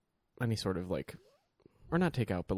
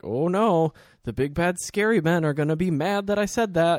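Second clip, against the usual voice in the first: high, loud mock-scared granny; toothless old woman; 7 semitones higher, 6 dB louder than usual. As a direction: play a toothless old lady, teasing fear. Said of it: "this little old toothless woman".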